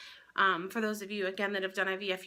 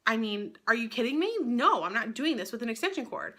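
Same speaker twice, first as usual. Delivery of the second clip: mildly indignant, a little lifted in pitch; retelling an exasperated refusal; incredulous protest. Retold or imitated. Patient balks at surgery run off an extension cord, incredulous.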